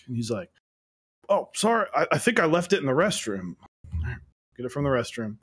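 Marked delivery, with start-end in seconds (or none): 1.3-3.6 imitated apologetic pupil. Teacher voicing an apologetic pupil.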